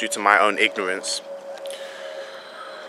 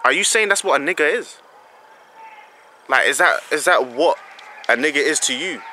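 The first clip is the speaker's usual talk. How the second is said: higher-pitched, affronted challenge; insulted; 4 semitones higher than usual. Retold or imitated. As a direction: put the offended question to them, pitched up. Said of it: "I got insulted".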